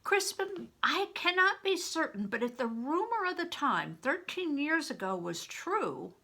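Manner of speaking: put-on an old widow gravely revealing the truth; lightly voiced old widow.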